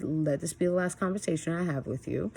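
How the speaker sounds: evenly delivered retold final warning; calm, firm tone. Mom re-enacting ending the talk with her son, calm. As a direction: keep an even tone while laying down the law. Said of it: "I kept this tone of voice".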